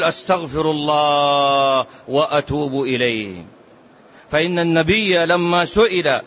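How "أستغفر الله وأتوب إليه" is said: low, solemn repentance; repentance formula. Shown as a demonstration. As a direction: say it low like a penitent. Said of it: "قم على قدميك الآن وقل". (قلها بصوت منخفض خاشع كالتائب)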